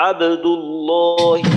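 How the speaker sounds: আবদুল্লাহি with the ব bounced in two beats, slow and loud; Quran-style আবদুল্লাহি with a clear qalqala bounce on ব. Shown as a demonstration. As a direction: say আবদুল্লাহি slowly, letting the ব echo after closing. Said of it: "তো কলকলা করে এইভাবে".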